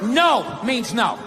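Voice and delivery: lightly acted coy woman saying no, playful; a hint of a teasing, half-hearted no; mock protest. Woman coyly fending off a man, half-laughing.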